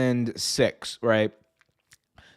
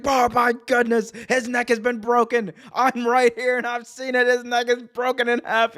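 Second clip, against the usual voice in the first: much higher, frantic announcer call; Jerry Lawler impression; 10 semitones higher than usual. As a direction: sell the injury in shock. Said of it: "Jerry's like".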